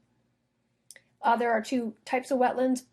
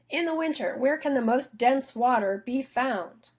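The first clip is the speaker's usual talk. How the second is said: lighter frog voice; 3 semitones higher than usual. Acted. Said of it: "answer his question".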